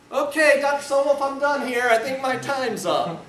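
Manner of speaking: high, loud, flustered pleading to quit; high-pitched nervous rookie shout; panicked plea. Retold or imitated. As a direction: blurt it out, desperate to sit down. Panicked young lawyer begging off.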